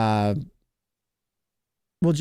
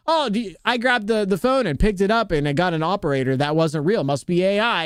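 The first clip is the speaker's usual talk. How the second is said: lightly voiced gullible person, pitched up; mock naive amazement; 6 semitones higher than usual. Streamer mocking people who call everything AI, higher mock-naive voice. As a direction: mimic someone overimpressed by a phone system. Mimics people mistaking things for AI.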